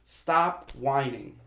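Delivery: slow, blunt "Stop whining"; dismissive. Retold or imitated. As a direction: say it slowly and flatly.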